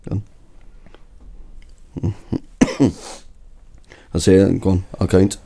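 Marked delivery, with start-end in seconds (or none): none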